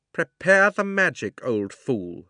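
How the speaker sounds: high, loud scornful order; a queen snapping at a servant; commanding witch. Acted. Jadis orders again.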